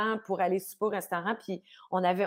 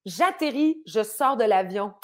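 put-on French accent; 4 dB louder, slower than usual. Actor landing in France, mock French accent. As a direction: switch into an imitated Parisian-style French accent. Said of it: "Il devient un Français".

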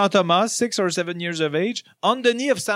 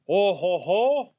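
Santa laugh; slower than usual. Acted. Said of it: "I'm gonna try to do the voice now".

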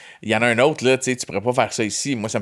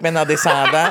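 laughing; 4 semitones higher, 5 dB louder than usual. Real, not acted. Laughs while telling the punchline.

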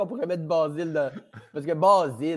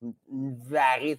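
"une varice" said slowly, tasting its texture; slow savoring; slower than usual. Shown as a demonstration. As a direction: drag out "varice" to feel its texture. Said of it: "il y a de la texture dans ce mot-là".

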